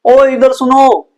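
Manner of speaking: slow drawn-out call to a diving buddy; calling out underwater. Pretend. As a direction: call out to get attention. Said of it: "मैंने एकदम से आवाज लगाई". (पानी के अंदर दोस्त को पुकारते हुए आवाज़)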